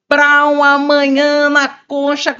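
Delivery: slow, loud and high, bursting with joy; upbeat. Shown as a demonstration. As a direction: sell it like a party announcement. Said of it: "pra cima".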